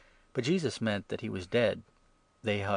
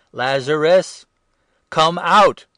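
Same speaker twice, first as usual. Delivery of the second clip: a huge ringing shout, much higher and louder; loud call; 8 semitones higher, 17 dB louder, slower than usual. Acted. Jesus calls dead Lazarus out of the tomb, booming shout. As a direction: call him out of the tomb at full voice. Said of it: "called out in a loud voice".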